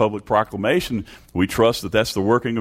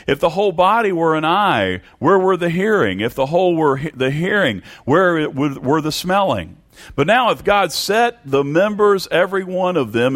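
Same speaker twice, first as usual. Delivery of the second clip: raised-pitch pulpit reading; emphatic scripture reading; 7 semitones higher than usual. Real, not acted. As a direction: read the verse out to the congregation, pitched up. Reads scripture out in preaching voice.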